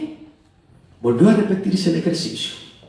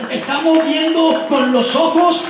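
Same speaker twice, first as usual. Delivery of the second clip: raised, exalted sermon delivery; fervent preaching; 5 semitones higher than usual. Acted. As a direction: proclaim glory to the congregation. (predicación exaltada y fervorosa)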